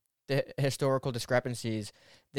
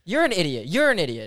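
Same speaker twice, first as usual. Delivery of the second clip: retorting insult; 4 semitones higher, 7 dB louder than usual. Real, not acted. Trading insults back.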